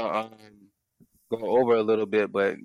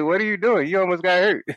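high-pitched comic warning; hammed-up indignation, pitched up; mock scolding; 8 semitones higher, 4 dB louder than usual. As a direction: scold her in playful disbelief. Acted scolding of old lady.

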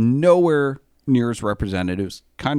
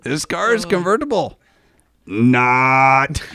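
put-on Borat accent; 3 semitones higher, 3 dB louder than usual. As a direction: hold the silence, then punch not like Borat. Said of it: "I have to assume you're Borat".

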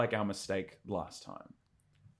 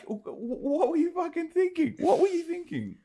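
very high stammering disbelief; incredulous yelling. Retold or imitated. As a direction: shriek it, baffled at the idiots. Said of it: "I was like".

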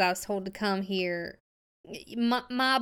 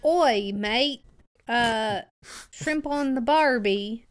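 a louder, hammed-up stab at an Australian accent; clumsy tourist Australian accent, a bit louder; mock Australian accent; 4 dB louder, slower than usual. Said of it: "Can I just try to speak like you".

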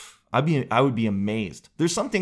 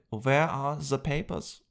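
slow, hushed demand for papers; hint of a stern cashier; stern clerk; 5 dB quieter, slower than usual. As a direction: ask like a suspicious guard.

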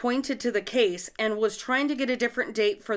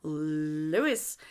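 attempted cartoon impression of the name Lois; Family Guy voice; 4 semitones lower than usual. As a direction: draw out "Lois" with a rise at the end. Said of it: "I try to mimic Lois from The Family Guy".

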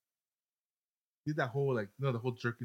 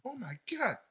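high gasp into a drawn-out, louder reveal; mock delight; 6 semitones higher, 5 dB louder, much slower than usual. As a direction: ham up the guilty thrill, stretching the ending. Joking as the delighted pillow owner.

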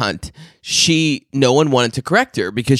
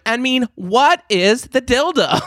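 very high, slow, drawn-out mock holler; high exaggerated mimicry; imitating the boss; 12 semitones higher, slower than usual. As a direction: stretch each word out high, like an exasperated boss. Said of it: "And then one day she went".

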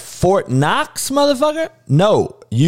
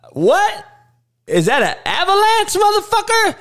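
mock confused shout. Mock confused hood listener.

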